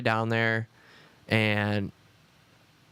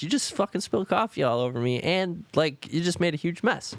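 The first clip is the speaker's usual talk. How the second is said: put-on annoyed girlfriend; 6 semitones higher than usual. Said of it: "She's like".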